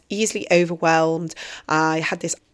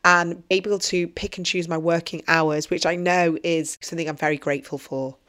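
hoarse voice; 3 dB quieter than usual. Real, not acted. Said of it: "I've got a bit of a hoarse voice".

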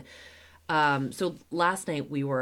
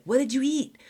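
high panicky question, then a rushed whisper; mock frantic mom; hammed-up anxious mother grilling her kid; freaking out; 8 semitones higher, 4 dB louder, faster than usual. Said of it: "kind of freak out and be like".

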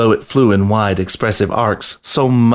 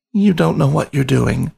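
higher, pleading moan; feeble moan; 6 semitones higher than usual. A narrator's reading. Rat begging the lion to stop, feeble higher moan. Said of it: "the biscuit moaned feebly".

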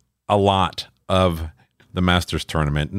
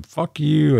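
pissed-off retort; 8 semitones higher than usual. Retold or imitated. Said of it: "They get pissed".

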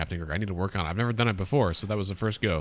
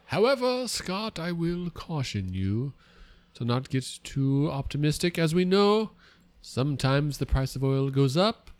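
pompous funny voice; 3 semitones higher than usual. Acted. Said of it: "don't I sound smarter?".

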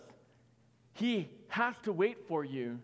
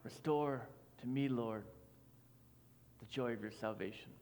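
hushed prayer; 7 semitones lower, 9 dB quieter than usual. Acted. Prayer quoted softly.

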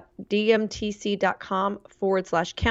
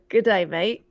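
Australian accent. Shown as a demonstration. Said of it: "Can you do an Australian accent?".

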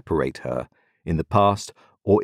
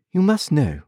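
condescending; 9 semitones higher than usual. A narrator's reading. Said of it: "condescending to me".

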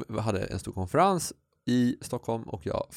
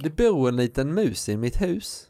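put-on slow, louder Scanian Swedish accent; 4 semitones higher, 4 dB louder, slower than usual. Co-host sets him a Scanian dialect test, slow hammed-up Scanian accent. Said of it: "nästa på skånska".

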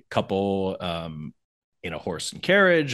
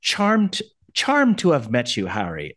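imitated Maggie; slower than usual. Maggie greeting Harry, lightly imitated Irish charm. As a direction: lightly voice an Irish woman being introduced. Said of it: "And then she says".

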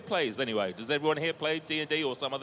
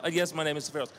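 put-on vague Germanic accent; 3 semitones higher, 3 dB louder, faster than usual. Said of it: "an offensively vague Germanic".

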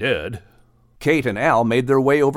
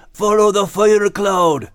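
slow, louder calling out; called out; 9 semitones higher, 6 dB louder, slower than usual. A narrator's reading. Max imitating the reeds calling, slow and louder. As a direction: echo the reeds' call.

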